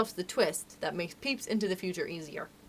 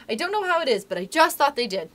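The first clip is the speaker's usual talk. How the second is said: put-on high, eager child's explanation; excited; 7 semitones higher, 5 dB louder than usual. A narrator's reading. Curly explaining his guess to Wendy, excited. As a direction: insist excitedly, raised voice. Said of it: "broke in excitedly".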